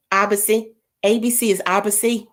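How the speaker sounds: ordinary delivery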